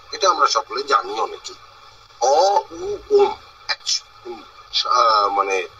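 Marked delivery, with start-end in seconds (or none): 2.2-3.4 অ, উ, ওম said as separate sounds; sounds spelled out. Shown as a demonstration. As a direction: spell out অ, উ, then ওম. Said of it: "প্রথমটা অ, তারপরেরটা উ, তারপরেরটা ম". (অ, উ, ম আলাদা করে উচ্চারণ)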